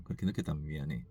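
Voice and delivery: low, soft re-enacted apology; hushed sorry, as if to his wife; quiet apology. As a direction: apologize gently under your voice. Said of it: "그때는 좀 조용하게 얘기하는 거예요".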